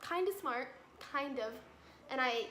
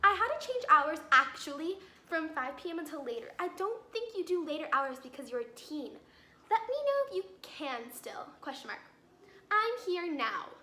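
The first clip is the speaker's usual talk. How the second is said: higher, sing-song reading of her text; reading the scammer's text in a mocking higher voice; mock scammer message; 3 semitones higher, 3 dB louder than usual. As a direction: parody the casual message in a chirpy voice. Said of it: "And she goes".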